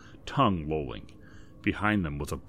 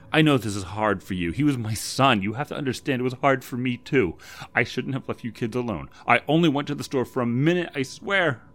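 loud, pained pleading, rising higher; pleading mother; 5 semitones higher, 5 dB louder than usual. A narrator's reading. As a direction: beg her daughter to understand, voice climbing. Laura pleads, confessing her guilt.

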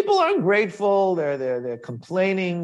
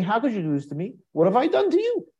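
high, pained plea rising on you; hurt protest; 6 semitones higher, faster than usual. Acted. Moshe asks God what he did wrong, pained and high. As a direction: ask God why, wounded.

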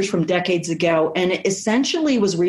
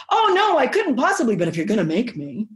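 mock coy protest; 2 semitones higher than usual. Mock coy woman teasing the man she wants to be made to. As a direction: act out a coy, reluctant woman. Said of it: "She's gonna be".

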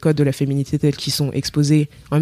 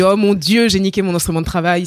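mock panic; 3 semitones higher than usual. Acts out her panic in mue.

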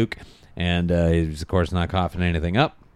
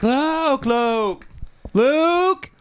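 calling after him; much slower than usual. Retold or imitated. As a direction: call out after the boy as he runs. Dad chasing, calling after son.

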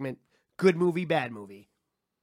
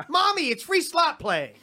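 put-on high, slow childlike plea; hammed-up drawn-out begging; whining son; 9 semitones higher, slower than usual. Son begging mom for gambling money, high slow whine.

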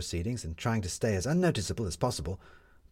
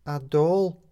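quiet; 9 semitones higher, 6 dB louder than usual. A narrator's reading. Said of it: "said Midge quietly".

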